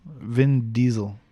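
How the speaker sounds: Diesel with a buzzed Z, DEE-zel; plain Z sound. Shown as a demonstration. Correcting the name to friend, Diesel said with a Z. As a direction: say Diesel with a Z in the middle. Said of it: "same people that say diesel".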